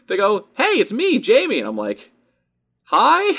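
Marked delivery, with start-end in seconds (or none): 0.6-1.6 put-on higher, louder young woman's greeting; bright fan girl. Fan girl greets him in the hallway, high and eager. 2.8-3.3 high, loud puzzled hi; confused hi. Retold or imitated. He answers the unknown fan, high and puzzled.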